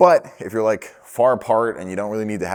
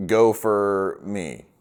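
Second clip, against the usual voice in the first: slow, deliberate walkie answer; drawn out like answering a call on set; radio reply; much slower than usual. Shown as a demonstration. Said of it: "Billy Bobby will say on the other side".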